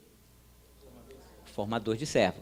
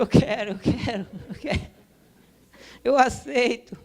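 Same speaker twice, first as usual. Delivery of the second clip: higher and louder, pleading yes; desperate surrender; 10 semitones higher, 6 dB louder than usual. Retold or imitated. Preacher retelling how he surrendered to God, loud and high. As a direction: blurt it out, giving in.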